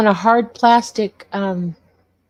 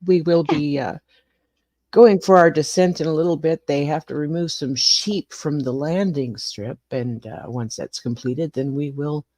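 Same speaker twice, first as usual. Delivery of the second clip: pilot announcement over the intercom; airport announcement; 4 semitones lower than usual. Pretend. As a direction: play the captain addressing passengers. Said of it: "ladies and gentlemen, this is your captain speaking".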